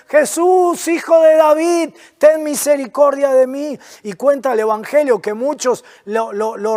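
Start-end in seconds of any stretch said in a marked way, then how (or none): 0.1-3.8 higher, pleading call; crying out. Retold or imitated. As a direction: call out to Jesus, begging. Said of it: "comenzó a dar voces y a gritar".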